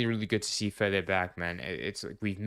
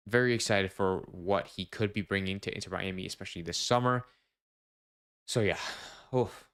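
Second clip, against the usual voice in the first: breathless after talking nonstop; words squeezed out between breaths. Real, not acted. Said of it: "like, out of breath".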